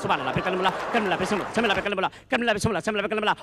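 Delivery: fast, breathless mock hockey commentary; frantic commentator. Comedian mimics the old commentator calling the game, frantic play-by-play. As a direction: rattle off names like a commentator gone mad. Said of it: "जो commentary करता था, तो वो पागल हो जाता था".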